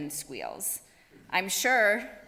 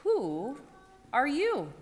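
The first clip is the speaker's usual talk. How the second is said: calmly; 4 semitones higher, slower than usual. Acted. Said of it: "and calmly said".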